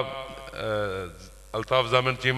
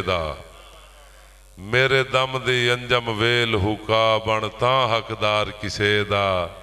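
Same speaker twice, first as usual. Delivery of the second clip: poetry recital; slower than usual. Acted. Poet dedicates verse to a guest, measured recital.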